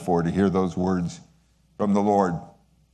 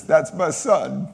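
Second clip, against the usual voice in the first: fond declaration; 6 semitones higher, slower than usual. Retold or imitated. God speaking to Jesus, slow tender pride. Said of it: "that's what God is saying here to Jesus".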